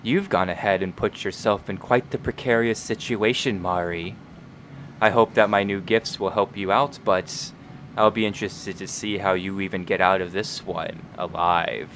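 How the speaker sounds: quiet gloating villain; sly honeyed whisper. Acted. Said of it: "his sinister, scheming voice".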